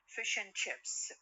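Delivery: "and" lightened to just "n"; slow phrase with "and" as a bare n; reduced "and". Shown as a demonstration. Teacher shows students the lightened form, weak "and". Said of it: "يمكن أن تخفف".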